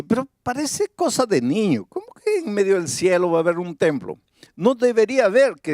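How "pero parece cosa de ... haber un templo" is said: lightly voiced objector, pitched higher; doubting listener. Preacher acting out a listener's objection to the congregation, mildly doubting. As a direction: voice a mild incredulous objection, raised in pitch. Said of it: "Ahora tú puedes decir así".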